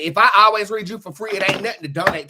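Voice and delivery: loud, high rebuke; indignant loud call-out. Real, not acted. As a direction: call out the freeloaders loudly. Calling out freeloaders.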